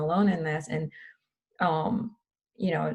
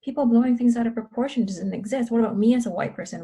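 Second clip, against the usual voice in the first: voicing an indignant skeptic, higher and louder; mock-offended, brushing it off; a hint of a defensive white student waving it away; dismissive protest; 5 semitones higher, 5 dB louder than usual. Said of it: "they think that".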